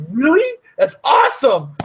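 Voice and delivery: put-on a light Canadian accent, upbeat and bright; hammed-up Canadian accent, first word jumping high. Telling Amber about the server, in a put-on Canadian accent. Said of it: "I turned on the Canadian accent for that so hard".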